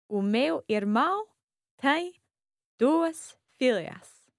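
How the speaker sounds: slow, separated words, no flow; careful word-by-word "duas filhas"; robotic word by word. Shown as a demonstration. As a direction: stiff learner reading each word alone. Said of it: "I sound a bit like a robot".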